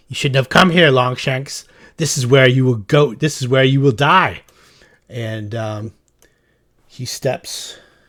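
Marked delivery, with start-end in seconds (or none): 0.2-4.5 fast, loud, yelled delivery. Storyteller voicing a character who yells back at the listener, yelling in character. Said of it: "he yells back to you".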